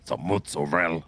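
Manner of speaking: Italian bit. Pretend. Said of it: "you and this Italian bit".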